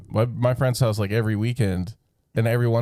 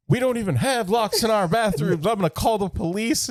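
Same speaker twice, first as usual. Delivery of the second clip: mock irate manager; 7 semitones higher than usual. Angry voicemail retold.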